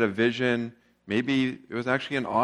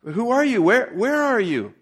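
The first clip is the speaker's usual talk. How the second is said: anxious Jack; 7 semitones higher, 4 dB louder than usual. A narrator's reading. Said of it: "Jack said".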